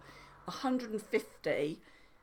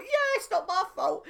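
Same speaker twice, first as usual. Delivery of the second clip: higher, playful mock excuse; mock self-justifying; 10 semitones higher, 5 dB louder than usual. Retelling her relief at the clinic, mock smug. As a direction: smugly let yourself off the hook.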